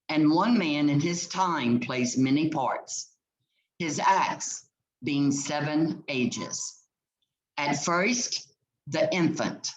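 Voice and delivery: measured, slowed reading of verse, lines given room; poem recitation. Acted. Teacher reading Jacques' speech to her class, measured recitation. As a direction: read it aloud like a poem for the class.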